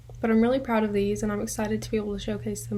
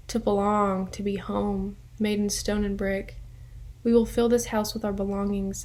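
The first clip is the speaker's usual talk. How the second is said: measured poem recital with pauses between lines; poetry reading. Acted. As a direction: read your own poem, line by line. Reads own poem aloud.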